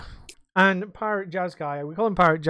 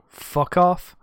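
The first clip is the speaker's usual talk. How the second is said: parrot voice; 3 semitones higher, 6 dB louder than usual. Retold or imitated. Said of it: "the parrot, was just like".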